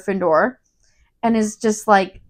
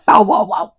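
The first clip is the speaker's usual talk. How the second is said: mock bow-wow barking; imitated dog bark; 4 dB louder than usual. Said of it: "and he barks".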